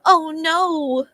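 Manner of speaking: breathless, urgent bad news; a touch of hammed-up panic, slowed at the end; frantic messenger. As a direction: gasp out the tragic news to Billy. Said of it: "I'm like".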